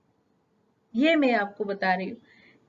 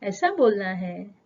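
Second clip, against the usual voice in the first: lovingly. Retold or imitated. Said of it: "प्यार से ही बोलेंगे".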